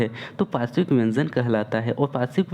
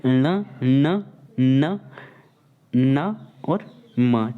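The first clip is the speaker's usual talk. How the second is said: sounds held very slowly and firmly; slow, firm teacher demo of the nasals; much slower than usual. Shown as a demonstration. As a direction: draw out each nasal for students. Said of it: "कौन कौन सा".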